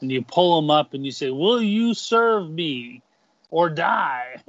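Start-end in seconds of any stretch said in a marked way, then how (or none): 1.3-4.4 menacing conqueror. Acted. Preacher voices conqueror to captive.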